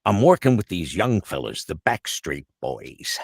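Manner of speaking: slow, lightly voiced Stan Lee. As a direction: draw out the Backstreet Boys like Stan. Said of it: "And then Stan goes".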